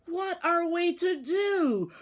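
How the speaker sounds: shivering, teeth chattering cry. Acted. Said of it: "cried the mice through their chattering teeth".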